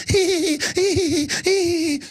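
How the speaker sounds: high, squealed hee-hee imitation; imitated tittering in drawn-out high hees; mock giggle. Trendies laughing at the host, mock high giggling. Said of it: "giggling at me".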